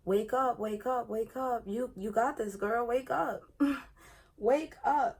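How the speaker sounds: rising, pleading wake up; mock desperate self-coaxing; retold pleading.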